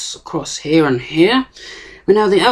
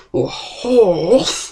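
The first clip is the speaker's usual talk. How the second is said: put-on British accent, pitched up; 3 semitones higher than usual. Speaker explaining a turns-ratio calculation: British accent. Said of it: "if you really want to say it in a British accent".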